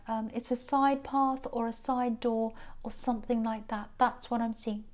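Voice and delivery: stuffed-up nose, congested; blocked nose. Real, not acted. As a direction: talk through a blocked nose. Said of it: "I'm sorry about my blocked nose".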